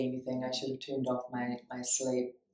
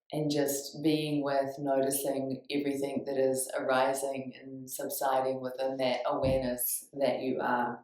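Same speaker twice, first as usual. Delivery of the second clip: guided meditation. Real, not acted. Teacher leading listeners into awareness, calm guided meditation. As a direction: guide them gently into noticing.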